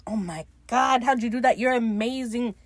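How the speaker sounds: a touch of starstruck gushing; mock gushing. Ed all over his man, mildly gushing. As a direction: gush over him, lightly acted. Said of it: "he's all over his man like".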